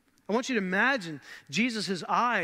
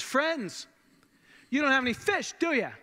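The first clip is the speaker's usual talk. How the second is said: light teasing call from the shore, pitched higher; playful jab; 6 semitones higher than usual. Retold or imitated. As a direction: tease them gently, a mock jab. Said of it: "a Je-, playful jab".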